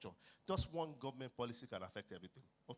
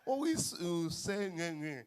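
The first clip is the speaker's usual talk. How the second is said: flustered reply; 6 semitones higher, 9 dB louder, slower than usual. Retold or imitated. Flustered guy pressed to speak English.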